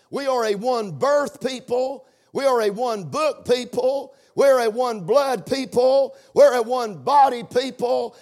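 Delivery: "one" stressed in each repeated phrase. Shown as a demonstration. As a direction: hammer out "one" every time. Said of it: "The emphasis is on one".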